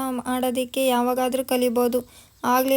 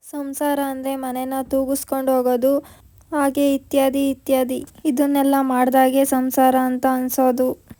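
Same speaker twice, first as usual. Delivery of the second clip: louder and louder, laying down the law; loud lecture; 8 dB louder than usual. Retold or imitated. Jhansi lectures Pallavi on running a household, rising loud. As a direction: declare it louder with each line.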